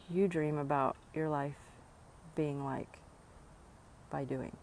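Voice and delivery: breathless from walking; out of breath. Real, not acted. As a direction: talk between quick breaths. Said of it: "I'm out of breath".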